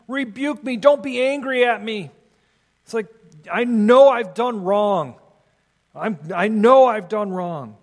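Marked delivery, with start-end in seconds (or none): 0.1-2.1 higher-pitched acted plea; mildly dramatized begging for mercy; crying out, pleading. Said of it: "He's crying out to him". 3.5-7.8 mildly dramatized plea of guilt; crying out in confession. Acted. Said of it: "He's crying out to him".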